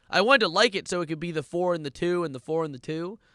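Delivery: loud, exasperated outburst at the song; angry rant. Real, not acted. Streamer cursing the song for ruining his day, angry outburst. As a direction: let the frustration explode.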